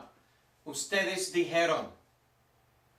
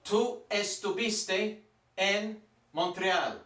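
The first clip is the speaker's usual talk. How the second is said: Tú estuviste en Montreal at a slow, careful pace; slow modelling; slower than usual. Shown as a demonstration. Teacher to class, an example sentence: slow and careful. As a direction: read the sentence slowly for students. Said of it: "Little tricky".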